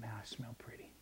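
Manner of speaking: very soft, dreamy, near whisper; soft hushed Mary. Acted. Preacher voicing Mary admiring her perfume, hushed. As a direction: breathe it out like a girl admiring perfume. Mary voiced in retold story.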